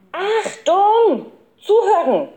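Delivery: high, sharp call for attention; commanding shout. A narrator's reading. Boy leader halting the rushing gang, shouting. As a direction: shout them to a standstill. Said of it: "schrie der Professor".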